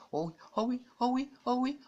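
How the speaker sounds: high, bright gaming cheer; excited cheer. Real, not acted.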